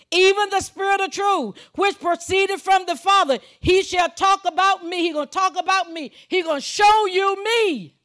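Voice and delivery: high, ringing sermon delivery; full-force preaching. Real, not acted. Preacher proclaiming the Comforter's coming to congregation, full-force preaching. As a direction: proclaim the verse with rising force.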